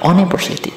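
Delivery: "university" begun with an o vowel, "oh-niversity"; wrong pronunciation. Shown as a demonstration. Teacher listing wrong readings, "university" as "oh-niversity". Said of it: "bukan university".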